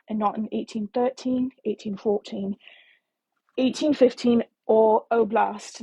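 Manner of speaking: attempted British accent for reading aloud. Reading a romance prologue to listeners in a shaky British accent. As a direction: read it in a put-on, imperfect British accent. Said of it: "how to do a British accent".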